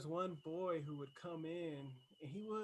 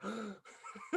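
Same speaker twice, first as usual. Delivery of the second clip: higher, louder, laughing announcement; laughing amazement; 7 semitones higher, 14 dB louder than usual. Retold or imitated. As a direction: proclaim it through laughter, retelling your amazement.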